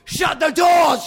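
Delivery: high, loud screamed order; furious high shout. A narrator's reading. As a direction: scream it as an urgent command. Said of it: "she screamed".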